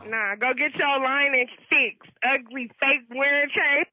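slow, loud, cutting insults; angry insult. Real, not acted. Caller insulting host back.

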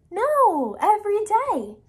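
high, loud, emphatic answer; emphatic correction. Real, not acted. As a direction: correct them with a big lift. Teacher corrects the pigeon emphatically.

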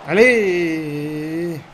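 loud rallying shout; shouting encouragement. Real, not acted. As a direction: yell it to push the team. Urging his team on.

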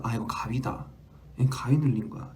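breathy whisper with no voice; whispering to myself. Retold or imitated. Host recalling sleep paralysis, whispering to herself. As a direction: whisper the realisation under your breath. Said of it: "이러면서".

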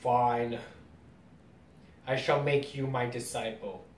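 grave, understated acceptance; super serious. Acted. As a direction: deliver it seriously, without raising the voice. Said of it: "he's super serious too".

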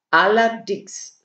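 slow, drawn-out smug agreement; smugly satisfied. A narrator's reading. Käthe agrees it's an embarrassing flop, smugly satisfied. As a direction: savour the word with satisfaction. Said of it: "sagte Käthe unüberhörbar zufrieden".

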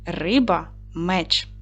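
риба-меч drawn out slowly and clearly; slow emphasis. Shown as a demonstration. Teacher slowly stresses the inserted риба-меч for pupils. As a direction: spell out риба-меч word by word. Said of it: "вставимо у розповідь гаджика пропущені слова".

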